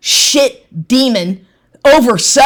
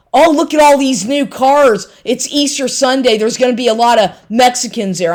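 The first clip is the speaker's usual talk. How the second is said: mocking imitation; 4 semitones higher than usual. Quoting ex's taunts.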